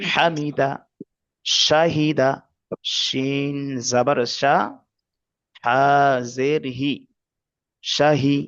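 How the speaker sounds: syllable by syllable, drawn out; patient teacher spelling; slow spelling drill. Shown as a demonstration. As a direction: build রদিফা, হামিদা, শাহিদা piece by piece. Spelling out practice words.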